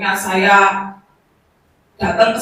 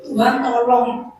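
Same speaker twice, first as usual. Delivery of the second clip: tearful; slower than usual. Retold or imitated. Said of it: "Saya sampai nangis".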